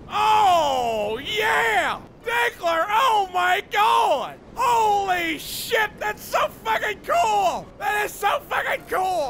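thrilled shouting. Real, not acted. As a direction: gush at the top of your voice. Thrilled by the new craft.

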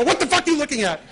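mock startling yell. Prankster over the drive-up speaker scaring the peering manager, loud laughing yell.

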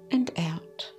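slow breathy whisper on the exhale. Acted. Guide asks listeners to sigh out, whispered slowly. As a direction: let the words drift out on a sigh.

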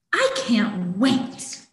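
eager kitten. Acted.

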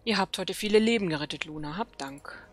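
lightly voiced night elf sentinel, urgent; dramatic quest reading. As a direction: read the quest text like a worried elf commander. Reads quest dialogue aloud.

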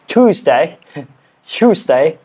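British "Tuesday", opening slid toward "choos"; British accent attempt. Shown as a demonstration. Learner on the word they do best, British accent attempt. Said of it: "This one I think I can do the best".

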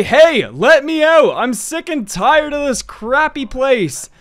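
mock yelling. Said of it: "stop yelling".

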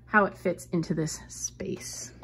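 soft slow whisper; hushed aside about the nook. Real, not acted. Admiring her new work nook.

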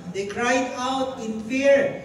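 slow, loud, high fearful reading; cried out in fear. Acted. Preacher acts out the disciples crying in fear. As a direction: read it like a terrified cry. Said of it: "Interpret niyo yung word na cry".

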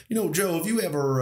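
put-on half-begun Texan accent. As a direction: start a Texan accent, then abandon it. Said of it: "I'm not gonna do the accent".

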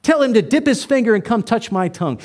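mild demanding rich man. Retold or imitated. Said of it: "You know what he says".

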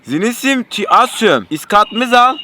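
slow fake foreign gibberish; backwards speech. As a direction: talk like a foreigner, slowly. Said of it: "Tersten söyleyeceğim".

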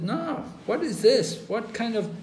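Krishna chiding Arjuna, mildly indignant; Krishna scolding. Retold or imitated. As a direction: scold him like a disappointed teacher. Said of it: "Krishna said".

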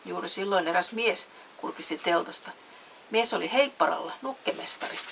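lively storybook reading with distinct dialogue; measured, animated storytelling; story narration. A narrator's reading. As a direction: read a bedtime story expressively. Reads a story aloud.

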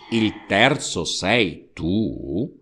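slow, halting disbelief; stammering. Acted. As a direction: stumble over the words in shock. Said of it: "balbettò".

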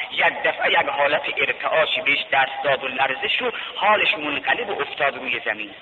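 ordinary talk

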